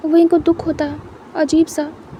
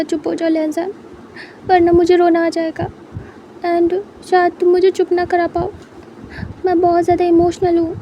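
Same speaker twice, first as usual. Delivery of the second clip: tearful; 3 semitones higher than usual. Acted. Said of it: "wing भी उसके साथ रोने लगता है".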